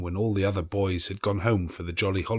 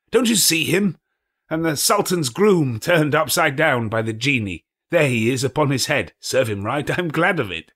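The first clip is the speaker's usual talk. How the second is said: put-on higher, louder, gleeful old man; excited, between laughing and crying; 6 semitones higher, 4 dB louder than usual. A narrator's reading. Scrooge reliving his boyhood books, overjoyed. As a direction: tumble out each memory with childlike delight. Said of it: "between laughing and crying".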